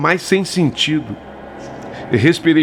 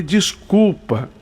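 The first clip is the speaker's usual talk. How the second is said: a slow, faltering apology whose voice nearly cracks; voice breaking; 2 semitones higher, much slower than usual. Retold or imitated. Shaken narrator apologizing to Bete, voice breaking. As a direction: say it as if your throat tightens halfway. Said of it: "Eu falei com a voz assim, meio falhando".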